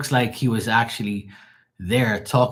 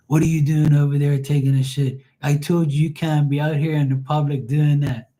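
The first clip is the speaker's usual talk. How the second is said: high, loud mock scolding of an animal; commentator voice; 6 semitones higher, 4 dB louder than usual. Retelling a funny video, scolding the mountain lion in a put-on voice. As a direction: scold the lion like a stern narrator. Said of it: "he's doing a commentary saying".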